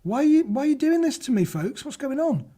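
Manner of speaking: playfully begging the chat to stop; mock exasperation. Mock despair at tricky words.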